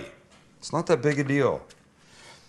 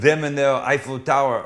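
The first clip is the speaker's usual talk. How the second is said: mock French accent; 4 dB louder than usual. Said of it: "That's a good accent".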